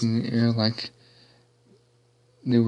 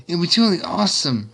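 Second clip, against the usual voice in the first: pitched-up cheer, only slightly louder; mild excited yell; 7 semitones higher, 3 dB louder than usual. A narrator's reading. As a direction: call it out keenly, higher. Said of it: "Rainbow yelled".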